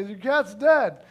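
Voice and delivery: slow, blunt restatement of bad news; mock-callous, spelling it out. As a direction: say it squarely, without any cushioning. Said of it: "That was really mean the way you just told me".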